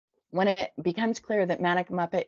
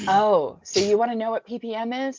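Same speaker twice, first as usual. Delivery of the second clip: higher, loud opening, taunting question; mocking taunt; 5 semitones higher, 5 dB louder than usual. Girl taunts the newcomer who asked, mocking. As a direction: dangle the answer tauntingly, pitched up.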